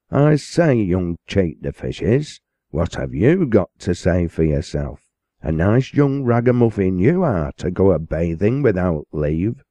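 put-on stern parson dressing down a boy; rough parson. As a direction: scold the boy roughly, dragging out young cheat the fishes. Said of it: "said Joshua roughly".

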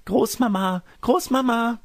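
put-on very high girlish call; Rotkäppchen. A narrator's reading. Granddaughter calling grandmother from outside, high girlish call. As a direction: call out in a high, singing child voice. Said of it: "hörte man Rotkäppchens Stimme draußen rufen".

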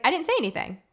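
high-pitched protest of innocence; retold innocent denial. Retold wife denies having yelled.

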